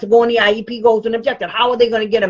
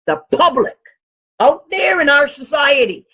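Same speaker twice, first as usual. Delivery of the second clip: loud, higher punchline; emphatic shout; 5 semitones higher, 3 dB louder than usual. Real, not acted. Advocate shouting the answer to parents, emphatic. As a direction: land it with a shout. Punchline after mock suspense.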